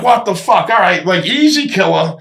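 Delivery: shocked. Retold or imitated. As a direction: jump back stunned. Glass smashed in his face.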